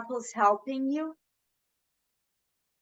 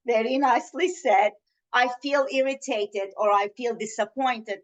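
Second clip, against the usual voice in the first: calm NVC request; 4 semitones lower than usual. Shown as a demonstration. Mother calmly asking her son Andy about socks, gentle. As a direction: ask kindly, without demand. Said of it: "I named him Andy".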